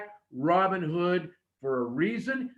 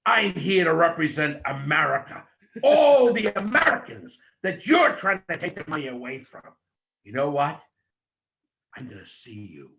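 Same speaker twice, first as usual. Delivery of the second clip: wrestling promo demo; 4 dB louder than usual. Shown as a demonstration. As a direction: build from calm to loud ring challenge. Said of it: "you should have slowly come back and said".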